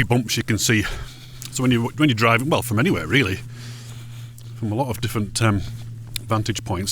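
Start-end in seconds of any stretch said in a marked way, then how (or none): 4.6-6.9 talking while chewing; words round a bite of Snickers; mouth full. Real, not acted. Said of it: "got Snickers in my mouth".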